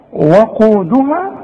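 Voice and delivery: very slow وقودها with the waw stretched; recited وقودها, long rounded vowels; drawn-out recitation. Shown as a demonstration. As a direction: draw out وقودها slowly and clearly. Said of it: "خد بالك".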